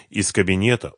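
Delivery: plain reading voice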